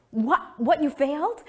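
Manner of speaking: high mock alarm; alarmed parents. Parents misunderstanding her news, alarmed. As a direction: parents assuming the worst.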